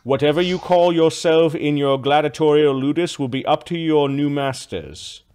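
lightly voiced official, measured and deliberate; official with book. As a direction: state it formally, as an official would. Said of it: "man with a book comes over".

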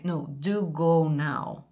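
"do go now" said slowly and firmly; serious emphatic order. Shown as a demonstration. Teacher insists the child leaves now, firm and slow.

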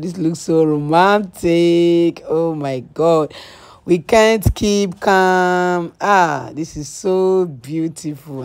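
slow, drawn-out swooning; gushing. Retold or imitated. Girlfriend gushing over the lit birthday cake, slow swoon. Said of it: "shy, like".

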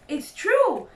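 high, loud youngster voice; small foxes crying out. A narrator's reading. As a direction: pipe up like eager cubs. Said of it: "cried the small foxes".

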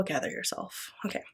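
soft whispered self-calming; whispered gather yourself. Real, not acted. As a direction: hush yourself down.

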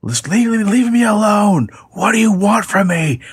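very high, frightened begging to a caller; panicked plea. Retold or imitated. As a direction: plead with the stalker in a high panic. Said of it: "him saying".

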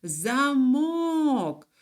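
замок with a long, high мок; stress on second syllable. Shown as a demonstration. Teacher naming the door lock, second-syllable stress on замок. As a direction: hold and lift the мок of замок. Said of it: "наголос уже падає на другий склад".

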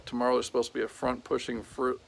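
words tripping from fatigue; tired stumble. Real, not acted. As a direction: stumble over it, exhausted. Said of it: "I'm tired and I can't talk".

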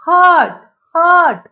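हट twice, high and loud, "uh" after ह; short "uh" vowel. Shown as a demonstration. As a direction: punch हट, हट with a clear अ sound. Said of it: "ह नंतर असा उच्चार होतोय".

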